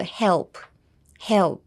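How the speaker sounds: "help" with a dark l, throat pushed forward. Shown as a demonstration. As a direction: say "help" as if voicing a little frog. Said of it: "喉前に出してる感じ". (喉を前に出して「help」)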